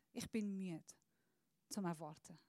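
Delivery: voiced quietly, worn out; weary sigh. Tired believer admits weariness, sinking softly. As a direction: let it sink, tired of waiting.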